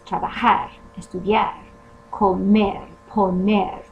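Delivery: each infinitive stressed on its final syllable; stress on the ending. Shown as a demonstration. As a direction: stress the ending of trabajar, estudiar, comer, poner. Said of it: "the stress is on the A R".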